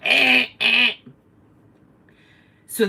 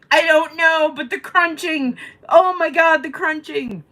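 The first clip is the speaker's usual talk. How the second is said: mock panic; 11 semitones higher, 7 dB louder than usual. Panicked retelling to friend.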